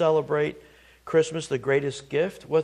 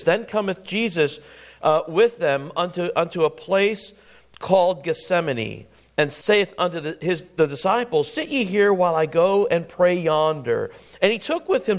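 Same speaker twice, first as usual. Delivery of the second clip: scripture reading. Acted. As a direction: read the old verses with weight. Reading King James scripture aloud.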